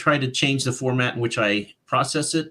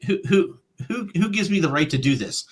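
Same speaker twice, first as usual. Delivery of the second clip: incredulous; 5 semitones higher than usual. Retold or imitated. Retelling disbelief at commissioning art.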